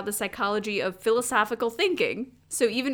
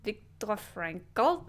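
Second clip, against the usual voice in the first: slow, mock foreign accent that lands Russian; Russian-sounding; 5 dB quieter, much slower than usual. Co-host attempting the psychologist's name, accidentally Russian-sounding. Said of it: "That sounds Russian".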